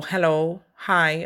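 courteous, even hello; polite phone greeting. Shown as a demonstration. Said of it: "in a polite manner".

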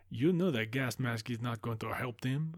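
the speaker in a vague put-on accent; unidentifiable accent. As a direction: attempt a foreign accent of no clear origin. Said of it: "I don't know what accent that is".

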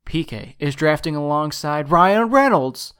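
booming epic trailer announcer; movie trailer voice. Acted. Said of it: "is that your, like, trailer voice?".

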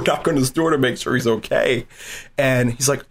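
ordinary talk, nothing marked

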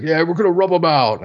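lightly voiced old-timey tough guy; a hint of a thirties mobster; old-timey gangster voice. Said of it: "this old-timey voice".

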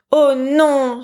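a princess crying out in sorrow; dismayed cry. A narrator's reading. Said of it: "s'écria-t-elle tout attristée".

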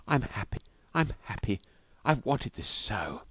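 soft murmur, slowing at the end; whispered. A narrator's reading. Wife telling husband of her joy, whispered. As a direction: say it softly, lingering on the last phrase. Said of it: "she whispered".

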